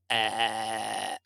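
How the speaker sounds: low creaky fry on "Uh"; vocal fry demo. Shown as a demonstration. Showing the host what vocal fry sounds like, low creaky "Uh". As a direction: drag "Uh" down into a creaky rattle. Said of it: "their voice goes".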